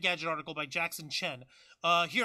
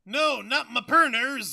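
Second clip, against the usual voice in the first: mock anguish; 4 semitones higher, 10 dB louder, slower than usual. Mock dismay at losing games.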